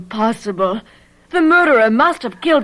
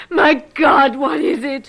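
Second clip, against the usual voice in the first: shocked; 4 semitones higher, slower than usual. Acted. Sees creature on floor.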